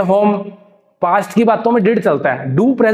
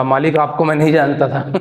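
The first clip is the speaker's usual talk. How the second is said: filmi dialogue; 4 semitones lower than usual. Shown as a demonstration. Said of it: "ऐसे बोल देते ना फिल्मी डायलॉग".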